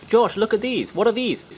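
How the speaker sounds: put-on a little kid dragging out the words; curious kid. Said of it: "kid voice".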